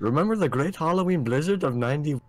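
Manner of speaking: high, singsong exaggerated Minnesotan; Minnesotan accent. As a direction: play a chipper Minnesota local, pitch swooping. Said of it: "The accents in Fargo are so exaggerated".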